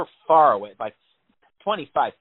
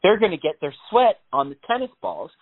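a hint of mock panic; 4 semitones higher than usual. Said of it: "panic attack moment".

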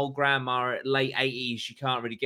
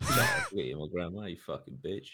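mock snarl; 5 semitones lower, 6 dB quieter, faster than usual. Mocking the grandmother, sarcastic.

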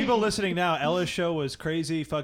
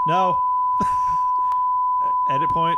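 high squealing laugh, loud; cracking up at the decline; shrieking laugh; 9 dB louder than usual. Real, not acted.

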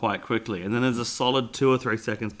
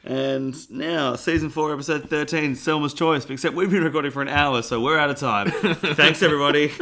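upbeat announcer sign-off; fake show outro; 3 semitones higher, 4 dB louder than usual. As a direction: wrap it up like a host. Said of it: "fake ending sting".

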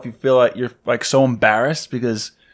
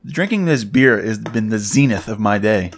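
mock grandiose; 4 semitones lower, slower than usual. Shown as a demonstration. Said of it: "Here's another Galaxy term".

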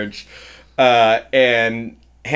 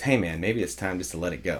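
quiet; 5 semitones lower, 10 dB quieter, faster than usual. Retold or imitated. Guy at wedding quoted.

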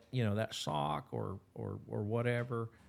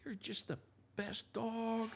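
high breathy whisper of praise; 14 semitones higher, 5 dB quieter, slower than usual. Shown as a demonstration. Trainer praising the pup after the retrieve, high whisper. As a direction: whisper sweet praise to the dog. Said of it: "So praise that puppy".

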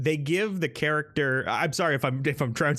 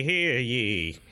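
town crier. Acted. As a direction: finish the proclamation calmly. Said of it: "he is dressed as Ben Franklin".

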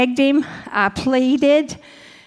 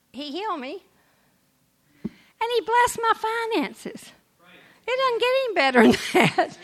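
emotional; 9 semitones higher than usual. Real, not acted. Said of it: "and I get emotional".

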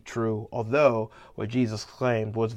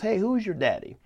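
higher-pitched cocky challenge, lightly acted; Denzel Washington; 7 semitones higher than usual. Coach challenging his unexcited linemen, lightly mimicked cockiness. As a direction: lightly imitate a coach putting players in place. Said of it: "Denzel Washington is talking to his linemen".

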